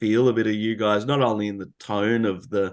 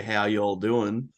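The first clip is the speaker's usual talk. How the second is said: slow, lightly put-on Texan drawl; touch of slow Texan accent; much slower than usual. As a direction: stretch it into a slight Texan drawl. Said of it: "I developed a Texan drawl".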